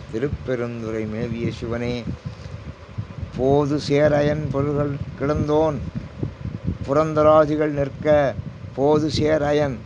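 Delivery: drawn-out devotional intoning; slow verse recitation. Acted. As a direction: stretch each word of the hymn slowly. (மெதுவாக பாடல் ஓதுதல்)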